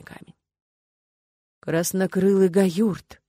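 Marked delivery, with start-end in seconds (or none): 1.6-3.2 amazed. Acted. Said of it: "изумлённый голос Фаруха".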